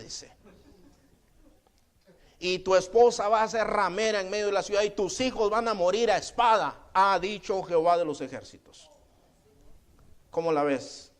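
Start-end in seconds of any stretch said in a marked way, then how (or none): 2.4-8.9 prophetic pronouncement. Acted. Prophet pronouncing judgement on priest.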